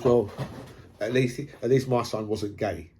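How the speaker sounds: lightly put-on Australian accent, barely shifted; a faint Aussie twang on the dad's words. Shooter's dad interviewed on TV, light Australian accent. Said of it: "in an Australian voice".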